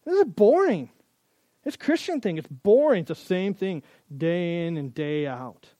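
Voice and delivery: sulky grumbling; bored whining. Retold or imitated. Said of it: "look at Jesus himself and go".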